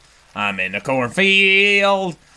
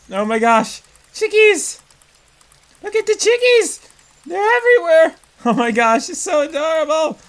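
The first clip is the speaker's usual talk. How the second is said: gushing over chicks; 6 semitones higher than usual. Real, not acted. Player surrounded by chicks, gushing high and delighted. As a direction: coo over the chicks like a proud mama.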